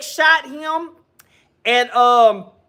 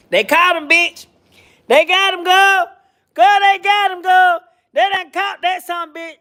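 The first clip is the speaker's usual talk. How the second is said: higher and louder, gleeful; excited; 6 semitones higher, 4 dB louder than usual. Real, not acted. Host tells her viewers the killer was caught, excited. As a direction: announce the arrest with glee.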